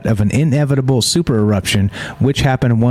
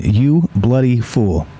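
imitating the duck; slower than usual. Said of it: "Ripper the musk duck saying".

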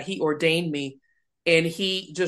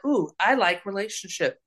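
God voiced fondly; 4 semitones higher than usual. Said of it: "he was like".

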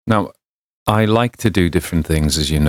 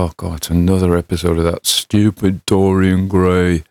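imagined listener complaint. Pretend. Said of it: "You know, they'll go".

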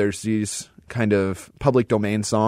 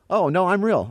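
higher-pitched mock insistence; fake medium's claim; 9 semitones higher than usual. Fake psychic assuring the audience, mock insistent. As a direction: imitate a performer claiming real powers. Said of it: "than to say".

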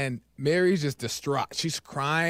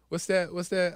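ordinary delivery

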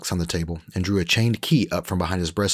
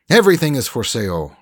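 higher, louder smug Frenchman; Frenchman Rolf; 7 semitones higher, 7 dB louder than usual. Acted. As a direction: sell it like a slick French trader.

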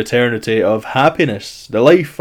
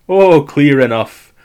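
grudging; 3 semitones higher, 6 dB louder, slower than usual. Acted. Zeus grudging concession.

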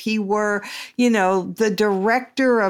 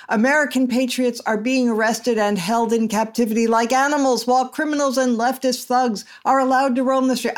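shouting capitalized words; 6 semitones higher than usual. Shown as a demonstration. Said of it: "I should shout this because it's in all caps".

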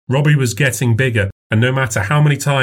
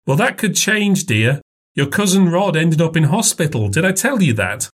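put-on older woman voice; 7 semitones higher than usual. A narrator's reading. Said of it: "mother talking".

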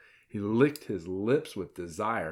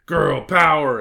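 loud cheer, moderately raised pitch; exclaimed rallying cry; 6 semitones higher, 11 dB louder, slower than usual. A narrator's reading. Red Riding Hood answers Hilary's cheer, exclaiming. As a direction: punch it out as a girl boss slogan. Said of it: "exclaimed Red Riding Hood".

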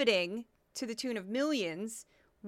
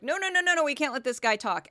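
high, louder mock cutoff; hammed-up panic shutting the guest down; mock panicked network; 4 semitones higher, 4 dB louder, faster than usual. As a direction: play the frantic producer pulling the plug. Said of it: "They're like".

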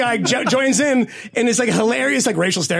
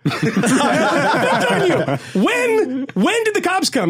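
high-pitched mock astonishment; retold disbelief; 9 semitones higher, much slower than usual. Friend hears he was betrayed, mock astonished. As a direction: imitate a stunned guy, words pitched right up.

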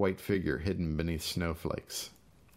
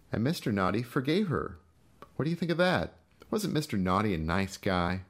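mocking Gus. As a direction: rub it in with fake cheer. Gus's mocking speech.

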